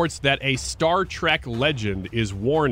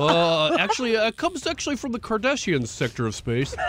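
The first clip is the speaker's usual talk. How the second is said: higher, pedantic sci-fi nerd; nerdy Trekkie voice; 8 semitones higher than usual. Pretend. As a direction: lecture like a know-it-all fan. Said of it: "Is that your nerdy Trekkie voice?".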